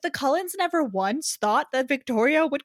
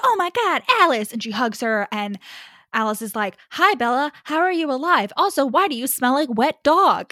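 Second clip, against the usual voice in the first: chirpy mock Alice; 4 semitones higher, 4 dB louder than usual. Mock Alice greeting Bella.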